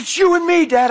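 high imitated teenage protest; upset yell. Son screaming at his confused dad, imitated outburst. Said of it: "screaming at me".

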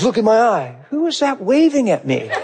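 high, giggly pretend call; playful laughing. Pretending to talk to the coworker, giggly. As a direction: tease with a laugh. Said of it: "I'm like".

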